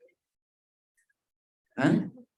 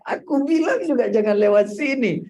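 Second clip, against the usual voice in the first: higher, louder mock nagging; nagging wife; 9 semitones higher, 4 dB louder than usual. Wife blaming husband for the route, mock nagging. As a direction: play the wife scolding her husband.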